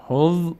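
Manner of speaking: teacher demonstrating a vowelless ending on "حظ"; vowelless consonant. Shown as a demonstration. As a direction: hold the end of "حظ" with no vowel after. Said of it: "به صورت ساکن".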